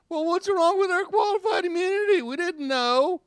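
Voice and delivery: high, whining mock cop voice; whiny mock cop. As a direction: whine like a caught cop. Mocking whining cops.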